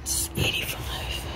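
very soft real whisper; barely speaking, all breath. Real, not acted. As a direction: whisper the price to yourself. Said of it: "I'm just whispering the whole time".

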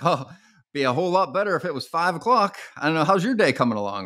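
cheerful upbeat small talk with a smile; smiling. Shown as a demonstration. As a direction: say it with a friendly smile. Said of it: "I intentionally smile when I say it".

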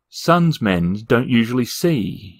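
slow, a touch of dread; a mild shudder in the thought; Two Flower unnerved by the light, slowly; shivering. Acted. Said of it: "he shivered".

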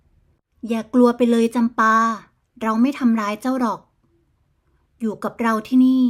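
gentle. Acted. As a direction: soothe a frightened captive, understated. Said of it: "เอ่ยขึ้นด้วยน้ำเสียงอ่อนโยน". (อ่อนโยนเล็กน้อย)

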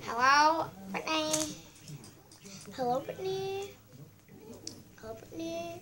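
high, sing-song greeting voice; a playful high phone greeting; put-on phone voice. Shown as a demonstration. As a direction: chirp hello up high like answering a call. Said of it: "I was gonna talk like this".

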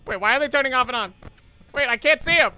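high, fast, frightened outburst; panicked. Real, not acted. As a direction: panic as the cameras fail. Gamer panics at flickering cameras.

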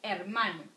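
hermano, every syllable clear; model word. Shown as a demonstration. Teacher to students, modeling hermano clearly. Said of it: "Repeat with me".

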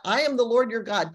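quick mention. Shown as a demonstration. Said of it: "It's got".

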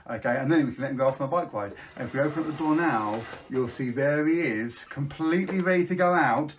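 put-on bright, sing-song voice for children; kids party magician. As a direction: hype up the kids at a magic show.

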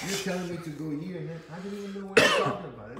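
baffled protest. Retold or imitated. Newcomer retelling his reply to confusing train directions, baffled protest. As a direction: protest loudly, acting out the confusion.

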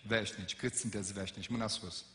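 normal talking voice

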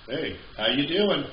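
lightly attempted Brooklyn accent; a hint of Brooklyn guy. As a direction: try a half-hearted Brooklyn pickup line. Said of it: "Wasn't one of my best Brooklyn accents".

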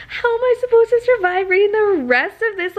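high, loud anxious plea; anxious wail. Real, not acted. Reader, anxious about the book's ending, wailing in anxious despair. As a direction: cry out how she'll ever survive the rest. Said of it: "literally a ball of anxiety".

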